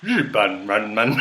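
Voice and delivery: "日本人们" said slowly in Mandarin; Mandarin pronunciation. Shown as a demonstration. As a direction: spell out the joke plural "日本人们" deliberately. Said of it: "so Japanese people would be like".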